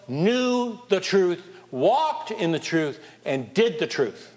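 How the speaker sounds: very slow, each phrase weighted; slow emphasis. Acted. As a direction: lay it down one beat at a time. Preacher hammers the point.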